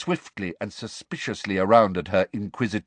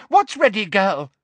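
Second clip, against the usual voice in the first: higher, louder, pressing; Umbridge's demand, pitched high and pushing; insistent demand; 12 semitones higher, 6 dB louder than usual. A narrator's reading. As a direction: shake the answer out of her. Umbridge shakes Hermione.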